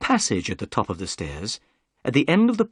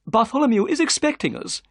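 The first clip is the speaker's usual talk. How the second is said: higher, eager gentleman's voice; Thaddeus Sholto; 13 semitones higher, 4 dB louder than usual. A narrator's reading. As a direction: voice the excitable host. Sholto's voice in the story.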